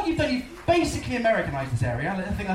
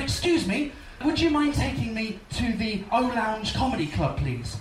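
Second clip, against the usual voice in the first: put-on English accent. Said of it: "There's me trying in my English accent".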